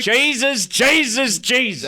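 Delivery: very high, loud Nova Scotian exclaiming; Nova Scotian accent. Shown as a demonstration. Guest demonstrates the accent for hosts, exaggerated high Nova Scotian. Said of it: "the proper Nova Scotian accent's".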